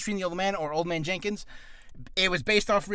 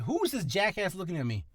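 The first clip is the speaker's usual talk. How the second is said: Patrick Star; 4 dB quieter than usual. Retold or imitated. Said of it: "Patrick Star sounding voice".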